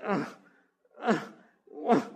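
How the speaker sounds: short grunt of disgust; exasperated groan. Acted. Preacher voicing dread of certain jobs, exasperated. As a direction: let out a fed-up "ugh".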